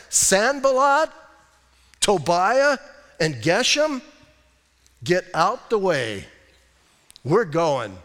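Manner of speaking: names called out slowly, then firm dismissal; bold defiance. Acted. Nehemiah answering his three opponents, bold defiance. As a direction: call each name, pause, then lay down the order.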